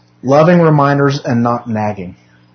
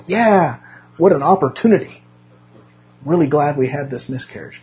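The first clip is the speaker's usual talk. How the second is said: higher-pitched, mildly hammed-up fake delight; mock enthusiasm; 3 semitones higher than usual. Preacher telling congregation how he did not react to loss, mock enthusiasm. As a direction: pretend to be pleased, with obvious irony. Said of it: "It's not like I go".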